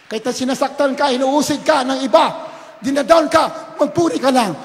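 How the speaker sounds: loud, insistent preaching; rousing exhortation. Real, not acted. Preacher urges hurting congregation to keep praising, insistent. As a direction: push each phrase out forcefully.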